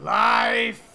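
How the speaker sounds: drawn-out, high-pitched full shout; raving prophet yelling. Acted. Prophet answering what happens in the cycle, screaming. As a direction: scream the warning out wildly. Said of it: "Stop yelling".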